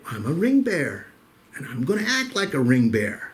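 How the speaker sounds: put-on insistent little boy. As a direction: explain it like an earnest kid. Little boy proudly explains his roaring.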